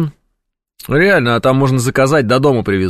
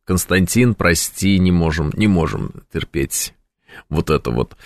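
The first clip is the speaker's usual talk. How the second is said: mock polite refusal; 4 semitones lower than usual. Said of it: "Прям хочется сразу сказать".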